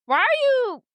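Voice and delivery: high disbelieving squeak; high, baffled why; incredulous. Retold or imitated. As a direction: shoot up in disbelief. Charlie's baffled retort.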